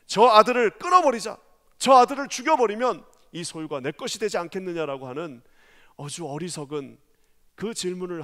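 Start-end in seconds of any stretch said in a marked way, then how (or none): 0.1-5.1 scheming servants. Retold or imitated. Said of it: "종들이 뭐라 그럽니까?".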